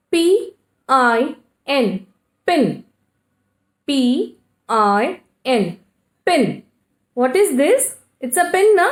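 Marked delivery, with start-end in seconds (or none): 0.1-2.1 P I N sounded out letter by letter, slowly; teacher sounding out the letters of a word. Shown as a demonstration. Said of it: "I is the vowel here". 3.9-5.8 P I N sounded out letter by letter, slowly; teacher sounding out the letters of a word. Shown as a demonstration. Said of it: "I is the vowel here".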